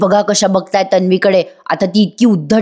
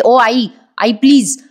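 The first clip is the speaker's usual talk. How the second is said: snapping at mother; slower than usual. Retold or imitated. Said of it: "ती त्यांच्यावरच वसकते".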